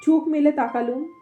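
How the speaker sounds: measured storytelling with pauses between phrases; unhurried audiobook-style reading; story narration. A narrator's reading. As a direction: read the tale aloud, phrase by phrase. Reads the story aloud.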